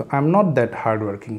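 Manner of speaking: very slow, word by word; slowed-down teacher model; slow drill. Shown as a demonstration. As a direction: spell the sentence out slowly. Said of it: "slow teacher model".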